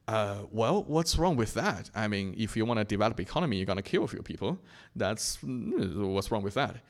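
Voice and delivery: imitating an official's casual shrug, quick in the middle; nonchalant, innocent. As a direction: play innocent, brush off the accusation lightly. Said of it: "in a completely nonchalant and, uh, an, i-, i-, innocent manner".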